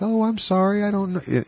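hint of a casual mother's apology; mom's voice. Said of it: "And she's like".

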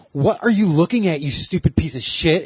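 lightly voiced sassy drag persona; a hint of a sassy drag queen. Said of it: "in this persona of Roxy".

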